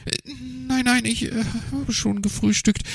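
high, hesitant fib; lying magpie. A narrator's reading. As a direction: stammer out a lie in the magpie voice. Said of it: "log sie".

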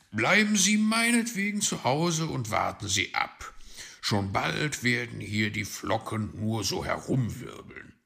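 boastful fox voice; confident fox. Acted. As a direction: contradict loudly, then ease down.

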